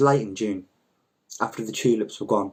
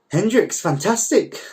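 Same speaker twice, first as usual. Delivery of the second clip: mock enthusiasm; 9 semitones higher, 5 dB louder than usual. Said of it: "I said".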